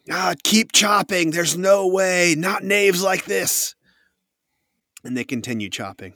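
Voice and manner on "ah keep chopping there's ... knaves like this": loud, high, drawn-out refusal; defiant woman leader. Acted. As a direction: overrule the waverer with high-pitched scorn.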